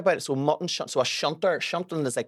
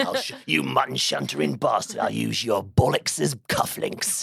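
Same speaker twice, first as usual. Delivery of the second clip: slowing Cockney threat; sinister Cockney hard-man act; mock Cockney. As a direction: menace them in put-on Cockney. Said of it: "And a cockney accent".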